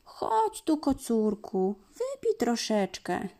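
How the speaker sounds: a hint of a kind cow; coaxing cow. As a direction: invite him kindly to drink. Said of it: "Nalała krówka mleka".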